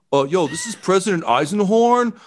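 high-pitched cartoon announcer; President Eisenhorn. Former president chiming in over the loudspeaker, high character voice. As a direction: pitch it well up, casual announcement. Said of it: "Over the loudspeaker, you hear".

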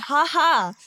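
high, loud mocking laugh-words; hooting shout. A narrator's reading. Bear cubs at the fallen beggar, hooting. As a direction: hoot it out in jeering glee. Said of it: "hooted and shouted".

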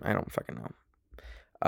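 soft, slow whispered aside; muttered aside. Real, not acted. Podcaster unsure about her agent, soft whispered aside. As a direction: let it fall away under your breath.

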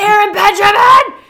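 high, full-volume imitation of yelling dad. Dad summoning Aaron, imitated high yell. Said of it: "my dad and I are yellers".

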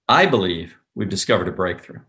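"I" hit hard, "believe" light; stress on I. Shown as a demonstration. Salesperson getting Nick's attention, "I" hit hard. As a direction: hammer "I", then let "believe" go lightly. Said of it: "you hammer I".

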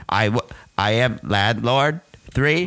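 monotone robot voice; flat mechanical robot voice. Acted. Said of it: "robot voice".

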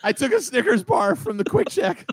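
high-pitched, hammed-up tearful kid confession; Chunk from Goonies. Suspect confessing everything under questioning, mock panicked. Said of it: "I do the chunk from Goonies".

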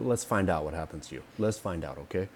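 a hint of quiet warning; Eddie Rothman. Host imagines the safety video's presenter warning novices, understated quiet threat. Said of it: "it should be Eddie Rothman".

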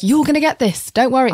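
high, coaxing reassurance; calming reassurance. Retold or imitated. Auditioner calming the nervous other girls, reassuring. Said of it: "I was calming the other girls down".

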